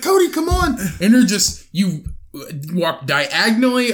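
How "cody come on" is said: calling out. Retold or imitated. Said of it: "I was like".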